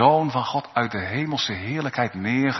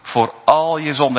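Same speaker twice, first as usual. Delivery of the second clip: proclaiming; 4 semitones higher, 4 dB louder than usual. Acted. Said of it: "die laat hij verkondigen".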